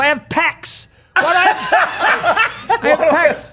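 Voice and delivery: high, loud, laughing through it; laughing amazed quote. Retold or imitated. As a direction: crack up while quoting the dad. Quoting dad, laughing.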